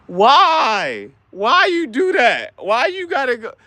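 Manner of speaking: high, hurt whining man; a hammed-up insecure boyfriend pleading; whiny jealous boyfriend.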